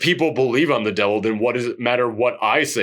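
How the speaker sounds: put-on old Japanese man. Reviewer voicing the old man toying with the deacon, low. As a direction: drop the pitch and taunt the deacon calmly. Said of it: "And the Japanese guy goes".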